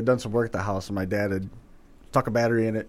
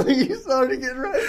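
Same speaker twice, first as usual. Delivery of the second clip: laughing; 13 semitones higher than usual. Real, not acted. Friend blushing, laughter.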